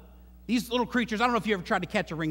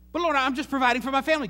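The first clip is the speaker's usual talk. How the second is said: defensive excuse; 5 semitones higher, 4 dB louder, faster than usual. Retold or imitated. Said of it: "He'll say".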